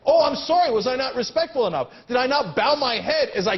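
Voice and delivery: fake-apologise with a sneer; sarcastic sorry to a CEO; sarcastic apology. Real, not acted. Mocking apology to a banker.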